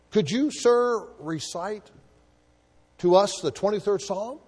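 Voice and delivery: put-on high, hopeful old clergyman's request; old clergyman asking. Old clergyman asks the famous actor, lightly voiced. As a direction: ask it like a humble old clergyman. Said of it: "an old clergyman present said".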